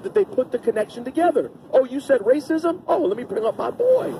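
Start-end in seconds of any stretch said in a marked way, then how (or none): 1.7-4.1 much higher, mocking racist voice. Mocking racists invoking Trump, much higher. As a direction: lampoon them calling on their boy. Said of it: "they say it out loud".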